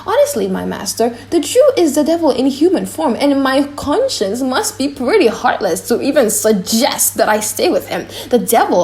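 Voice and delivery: a flustered jester torn between two voices; comic clown. Acted. Launcelot the clown's monologue.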